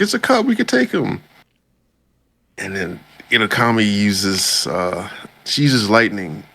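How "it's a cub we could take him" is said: much higher, mock cocky bandit voice; squeaky boast of a bandit. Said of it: "It's like".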